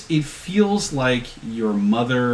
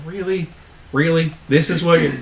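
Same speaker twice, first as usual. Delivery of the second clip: droopy disbelief; 5 semitones higher than usual. Acted. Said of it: "gets this droopy look on his face".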